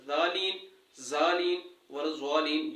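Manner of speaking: जालीन with plain d or z; wrong readings. Shown as a demonstration. Teacher listing wrong sounds for students, plainly. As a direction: say जालीन without the heavy dad. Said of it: "ये तीनों नहीं पढ़ने".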